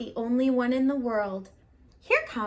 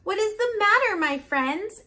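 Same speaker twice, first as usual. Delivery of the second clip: kindly; 9 semitones higher, 4 dB louder than usual. A narrator's reading. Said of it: "she asked kindly".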